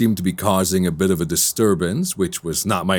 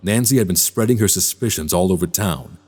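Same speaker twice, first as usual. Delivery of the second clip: measured, understated first-person narrator; brooding story narration; 3 semitones lower than usual. Acted. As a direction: reflective storyteller's voice-over.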